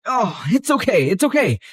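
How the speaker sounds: normal talking voice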